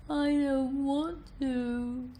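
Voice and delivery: very slow, high-pitched whine; gentle whine. Shown as a demonstration. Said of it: "with a somewhat whining tone".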